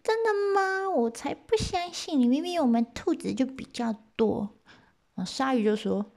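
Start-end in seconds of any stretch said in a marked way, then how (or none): 0.0-4.5 high, small rabbit voice; little rabbit voice. Acted. Rabbit explains to the eighty gods in a high voice. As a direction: speak up as the tiny rabbit. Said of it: "兔子就说啦".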